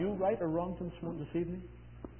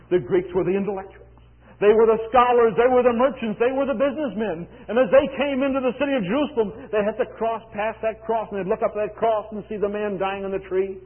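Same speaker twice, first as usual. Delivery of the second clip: raised, emphatic pulpit voice; impassioned preaching; 6 semitones higher, 7 dB louder than usual. Real, not acted. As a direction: drive each point home to the congregation. Preaches at full force.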